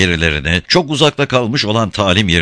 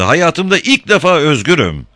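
high, jubilant cry; exultant shout; 9 semitones higher, 4 dB louder than usual. A narrator's reading. Girl free for the first time, shouting joyfully. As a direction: call it out high and elated. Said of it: "diye bağırdı".

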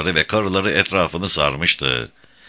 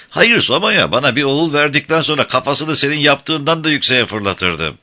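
much higher, animated protest; boisterous boast; 8 semitones higher than usual. A narrator's reading. King boasting to his friend, high and emphatic. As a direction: sustain a high, emphatic bragging voice.

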